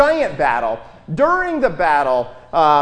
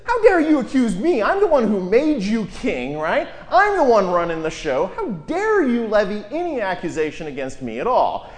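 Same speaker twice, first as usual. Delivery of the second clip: affronted, the man who made you king; mock indignant tirade; indignant outrage. Shown as a demonstration. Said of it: "And the other is".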